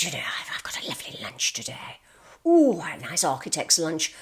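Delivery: hushed, breathy whisper of delight; whispered relish. Retold or imitated. Odd boss gloats about his lunch, whispering. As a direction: whisper it like a secret treat.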